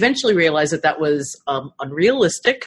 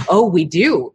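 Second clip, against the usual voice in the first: realizing; 3 semitones higher, 6 dB louder than usual. Retold or imitated. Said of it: "we're like".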